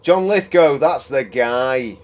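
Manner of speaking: loud, high, sudden recall; excited realization. Real, not acted. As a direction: shout the name as it comes back.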